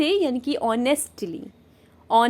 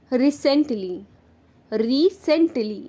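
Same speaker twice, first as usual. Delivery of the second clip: slow model word; much slower than usual. Shown as a demonstration. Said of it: "teacher models the word".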